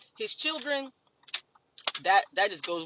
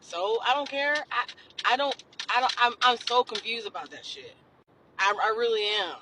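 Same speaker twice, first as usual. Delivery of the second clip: exasperated; 3 semitones higher, 5 dB louder than usual. Real, not acted. Exasperated rant.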